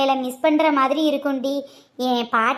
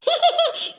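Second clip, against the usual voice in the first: squeaky laugh; 13 semitones higher than usual. Acted. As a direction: giggle up high at the joke. Laughs at teasing joke. (உயர்ந்த கிளுகிளு சிரிப்பு)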